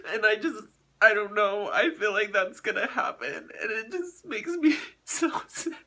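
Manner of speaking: sobbing, voice breaking at the end; real tears, words catching; crying. Real, not acted. Crying about her other dog.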